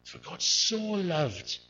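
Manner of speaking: "For God so loved" slowed, "loved" falling; slow, weighted "so loved"; slow stress. Shown as a demonstration. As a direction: draw out "loved" slowly. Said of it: "That word "so" has two meanings".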